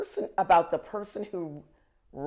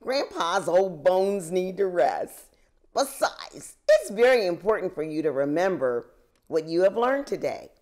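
gently; 4 dB louder than usual. Acted. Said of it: "and said gently".

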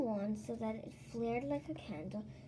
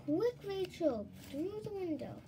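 urgent; 7 semitones higher than usual. Acted. Kirsty urging escape.

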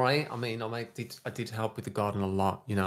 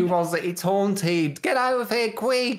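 loud, high-pitched scare; playful panic; 8 semitones higher, 4 dB louder, slower than usual. Pretend. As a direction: cry out a spooked warning to flee. Playful panic at haunted grave.

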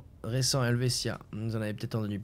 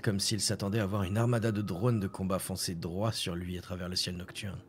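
ordinary talk

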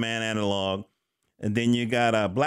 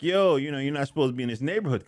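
lightly voiced street kid; faster than usual. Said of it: "checking them like".

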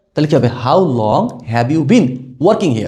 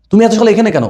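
higher-pitched astonished question; acted surprise; 7 semitones higher, 4 dB louder than usual. Shown as a demonstration. Teacher demonstrating a how come question, acted surprise. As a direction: ask it in surprise, pitch lifted. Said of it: "এই ধরনের একটা অবাক".

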